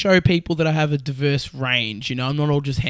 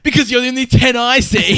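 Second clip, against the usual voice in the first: louder, higher cheesy pickup line; 8 semitones higher, 6 dB louder than usual. Pretend. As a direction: deliver the line like a smooth flirt. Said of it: "the voice that I wrote them in".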